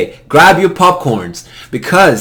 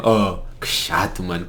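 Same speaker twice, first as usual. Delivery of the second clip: bored; 3 semitones lower, 10 dB quieter than usual. Retold or imitated. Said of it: "Não quero ficar".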